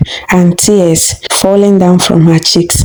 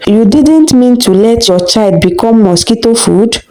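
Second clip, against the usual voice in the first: hissed; 4 semitones higher than usual. Acted. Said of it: "her mother hissed".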